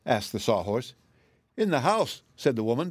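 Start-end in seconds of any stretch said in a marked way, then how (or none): 1.6-2.2 high, tearful voice; bursting into tears. A narrator's reading. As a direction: say it as tears start. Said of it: "bursting into tears".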